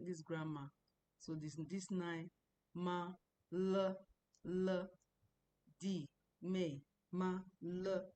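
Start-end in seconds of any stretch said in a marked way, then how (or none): 2.7-8.1 "ma", "l", "D", "me" as short unaccented particles; neutral tone. Shown as a demonstration. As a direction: give each particle, "ma" or "l", one short toneless beat. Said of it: "All those things are natural tones".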